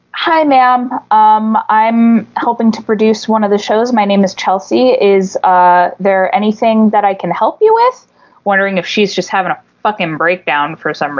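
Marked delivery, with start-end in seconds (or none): 0.1-8.1 polite helper calming an angry homeowner, customer service voice. Retold or imitated. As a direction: sweet-talk her like a shop clerk. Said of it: "in my very nice, um, you know, customer servicey".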